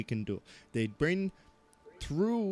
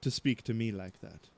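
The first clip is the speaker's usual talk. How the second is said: offended outburst; 3 semitones higher than usual. Acted. NPC snaps at accusing player.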